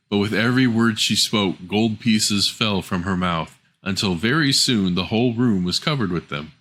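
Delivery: usual speaking voice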